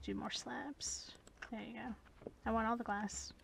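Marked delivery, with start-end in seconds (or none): 0.0-2.3 whisper. Real, not acted.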